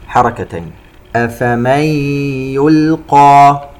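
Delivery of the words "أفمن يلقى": slow chant, noon of "أفمن" merged into a hummed y; idgham with ghunna. Shown as a demonstration. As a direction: hum from "أفمن" into "يلقى". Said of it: "نون ساكنة وبعدها حرف الياء إدغام بغنة". (ترتيل بإدغام نون "أفمن" في ياء "يلقى" بغنة)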